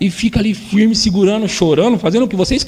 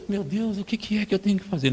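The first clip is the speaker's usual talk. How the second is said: much softer, exasperated sigh of a parent; mock worn-out parent; despairing parent; 2 semitones higher, 9 dB quieter than usual. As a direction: give up quietly in despair.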